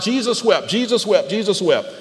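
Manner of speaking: quick, rattled-off repetition; brisk recital on demand; whipped out. Shown as a demonstration. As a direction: whip it out like a memorized verse. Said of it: "you just whip it out".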